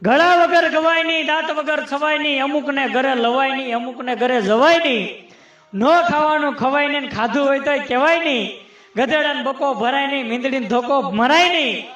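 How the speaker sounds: rhythmic comic doggerel; sing-song recital, landing on each rhyme; rhyming verse recitation. Acted. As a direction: rattle off the rhymes with a steady beat.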